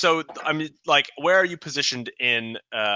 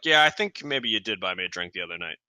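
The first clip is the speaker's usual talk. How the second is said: a little lower, lukewarm agreement; unenthused; 3 semitones lower than usual. Acted. Guard half-humouring the adventurer's claim of a drink, unenthused. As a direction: concede it without much enthusiasm. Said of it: "he doesn't seem that enthused".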